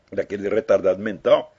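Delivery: normal talking voice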